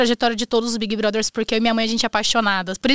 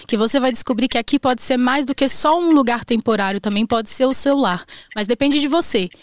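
coaching voice. Acted. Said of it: "foi com a voz de coaching".

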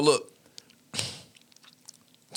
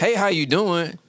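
hint of a formal greeting; slightly raised polite greeting; 5 semitones higher than usual. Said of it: "I'm like".

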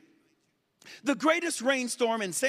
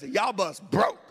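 country drawl; 3 semitones lower, slower than usual. Shown as a demonstration. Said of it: "add extra syllables ... extra emphasis".

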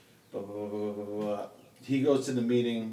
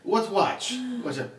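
put-on German accent; 10 semitones higher, slower than usual. Mimicking Carl's accent in movie.

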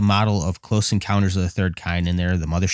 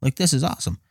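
raised pitch, gushing over the exhibit; excited gushing; 7 semitones higher, faster than usual. Retold or imitated. Past self at the museum exhibits, excitedly gushing. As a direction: relive the thrill of seeing it. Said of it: "And I was like".

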